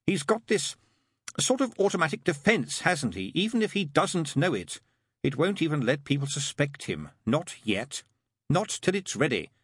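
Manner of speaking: lightly voiced demon arguing back; demon character, dismissive. Demon rejecting the angel's idea, lightly exasperated.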